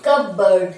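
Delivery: cupboard slowly as kuh-burd; silent P. Shown as a demonstration. Teacher explaining the silent letter, silent P. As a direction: leave the p out of cupboard. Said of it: "পি is silent here".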